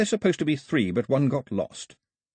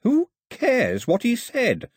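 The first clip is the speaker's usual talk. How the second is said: impatient; 14 semitones higher, 4 dB louder, slower than usual. A narrator's reading. Daphne impatient.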